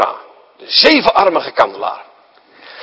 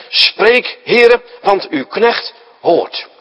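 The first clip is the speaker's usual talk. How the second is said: solemn prayer; 3 semitones higher, much slower than usual. Acted. Eli teaches Samuel the reply.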